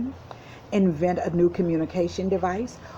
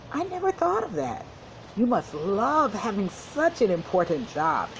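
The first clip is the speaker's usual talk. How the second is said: put-on child voice; 4 semitones higher than usual. Mia talks to the bee.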